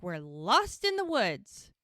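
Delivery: slow, drawn-out mock lament; acted despair on the edge of giggles; imitated near-hysteria. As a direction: stretch it out as if barely holding together. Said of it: "it's almost hysterical".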